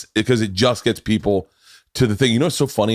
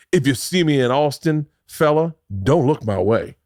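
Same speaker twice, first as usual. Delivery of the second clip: mock cowboy; 4 semitones higher than usual. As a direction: warn them off like a half-hearted cowboy. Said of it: "Is that what the Cowboys say?".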